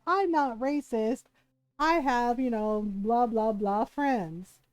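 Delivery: drawn-out mimicry of a denial; mock protesting. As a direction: mimic a defensive excuse, stretching the words. Mimicking people who deny racism.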